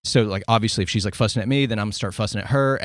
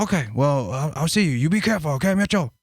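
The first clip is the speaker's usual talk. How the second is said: higher, doting mother offering soup; imitating sweet mom; 6 semitones higher than usual. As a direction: play the suddenly tender mom, pitched up. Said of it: "she was like".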